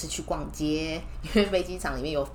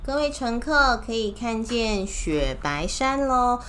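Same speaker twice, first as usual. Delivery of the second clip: high, slow cheery announcer; tour guide announcement; 6 semitones higher, 5 dB louder, slower than usual. Pretend. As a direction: announce the view to passengers. Voices balloon announcement.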